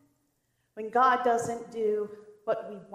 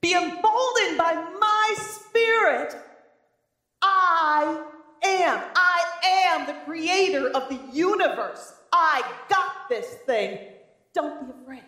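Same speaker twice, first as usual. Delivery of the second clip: slow, raised be emboldened; commanding reassurance; 4 semitones higher than usual. Retold or imitated. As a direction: declare divine authority.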